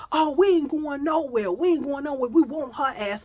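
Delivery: loud, stubborn refusal; defiant shout. Retold or imitated. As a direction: dig in and refuse. Girls refuse to leave.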